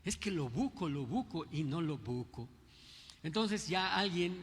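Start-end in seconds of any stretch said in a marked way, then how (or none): 0.0-2.5 put-on Yucatecan accent. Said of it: "¿y qué quiere decir eso".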